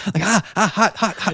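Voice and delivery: gasping around hot food with a laugh; mouth full of hot food. Pretend. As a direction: blow out air past a burning-hot bite. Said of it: "No one wants that in their ears".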